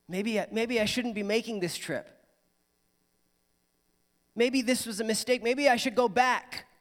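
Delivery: anxious father. Retold or imitated. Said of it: "imagine what's going through his mind".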